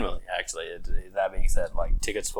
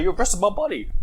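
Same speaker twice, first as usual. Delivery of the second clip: put-on whiny drunk; 11 semitones higher than usual. Drunk friend protests to cop.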